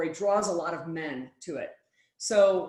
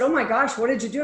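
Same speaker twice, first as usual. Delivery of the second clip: shocked; 5 semitones higher, 5 dB louder, faster than usual. Retold or imitated. Shocked reaction to crying story.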